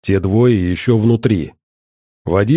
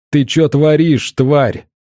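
yelling; 4 semitones higher, slower than usual. Acted. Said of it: "орал его брат".

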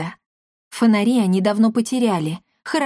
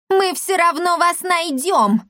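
higher, slower shriek; визг; 9 semitones higher, slower than usual. A narrator's reading. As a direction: shriek after them from the porch. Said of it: "завизжала Лавдотья". (визгливо кричит вслед убегающим с крыльца)

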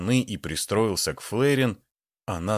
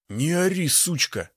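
rough threat; 6 semitones higher than usual. A narrator's reading. Thug threatening the woman.

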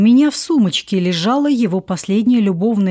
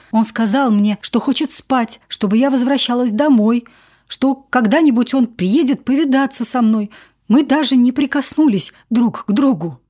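upset; 4 semitones higher than usual. Acted. Wife blurting out the story.

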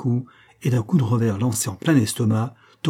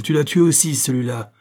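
raised, appalled exclamation; crying out; 3 semitones higher, 3 dB louder than usual. Acted. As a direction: blurt it out as an accusation. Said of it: "cria-t-il". (exclamation effarée)

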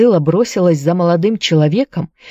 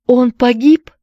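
high, rising, anxious question; tearful question; 7 semitones higher, 3 dB louder than usual. A narrator's reading. Anne asks about Jared's fate, lightly tearful. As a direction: ask it with a touch of tears. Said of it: "заплакала Энн".

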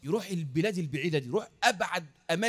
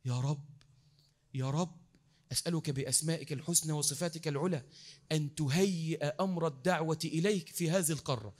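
supplication. Acted. Preacher models a night prayer for a whole continent, earnest supplication. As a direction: plead to God, hushed at first, then firmer.

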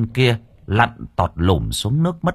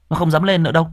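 put-on higher young man's voice, coaxing; sly nephew's voice; 7 semitones higher, much faster than usual. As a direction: say it as a trick to lure the uncle. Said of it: "nó thốt lên".

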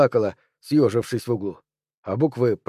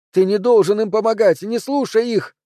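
near-shriek; 8 semitones higher than usual. A narrator's reading. Anne-Cécile shrieks at Bastien not to listen. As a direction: escalate into a frantic shriek. Repeated plea, rising.

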